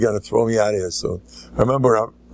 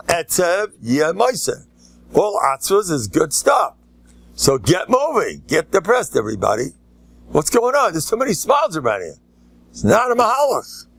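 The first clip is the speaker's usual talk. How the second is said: hammed-up scolding of the crowd, pitched higher; mock stern preaching; 5 semitones higher than usual. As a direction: pretend to scold the smiling crowd. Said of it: "I'm joking".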